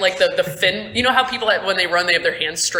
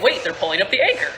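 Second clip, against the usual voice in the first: quick, lightly acted alarm; mildly alarmed realization; faster than usual. Game master voices player noticing the anchor, quick mild alarm. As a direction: blurt it as a sudden realization. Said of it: "and you're like".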